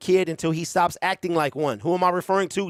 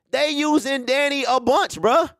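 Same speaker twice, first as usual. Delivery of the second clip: indignant; 8 semitones higher than usual. Real, not acted. Indignant at clickbait videos.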